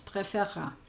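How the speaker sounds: "préférera" in French with a light e in the middle; showing the student how little the e sounds; French pronunciation demo. Shown as a demonstration. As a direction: say "préférera" softly, letting the syllables run. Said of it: "Casi la esta N y la escuchamos".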